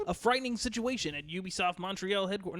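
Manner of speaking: put-on old-fashioned newsreel anchor voice; booming vintage broadcast read; 1960s news anchor. Shown as a demonstration. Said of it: "that's like a nineteen sixties news anchor".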